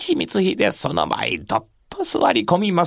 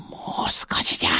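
whispering; 6 dB quieter than usual. Acted. Whispered restraint.

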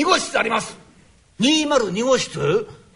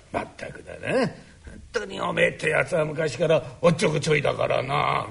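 put-on old father voice; 7 semitones lower, 3 dB quieter than usual. Father figure speaks.

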